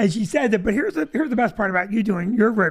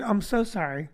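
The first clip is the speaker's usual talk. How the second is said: soft sincere apology; 3 semitones lower, 4 dB quieter than usual. Retold or imitated. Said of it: "I rolled my window down and I said".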